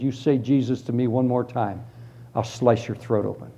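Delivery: low, softened threat; retold knifepoint warning, understated; menacing.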